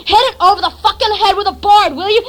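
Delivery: fast, loud acted order; hurried mock yell, short of a full scream; retold scream. Narrator urging on the chase, mock screaming. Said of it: "I'm screaming".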